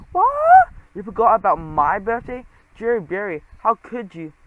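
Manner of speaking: high, loud mock wail over a forgotten birthday; fake wail. Trap wails at his cousin over his birthday, a hammed-up mock wail.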